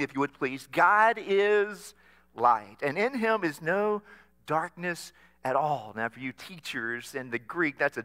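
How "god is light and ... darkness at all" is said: firm, emphatic recitation leading the church; call to recite. Shown as a demonstration. Pastor leading the congregation in reciting, emphatic. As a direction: read it out so the church joins in. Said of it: "Say that phrase with me".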